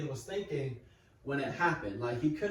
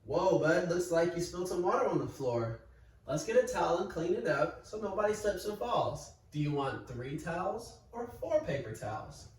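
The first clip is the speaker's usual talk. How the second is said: calm dad response. Shown as a demonstration. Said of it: "he could respond and say".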